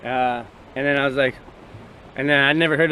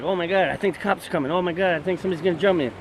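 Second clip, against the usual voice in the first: mock paranoid; 2 semitones higher, 3 dB quieter, faster than usual. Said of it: "you're like".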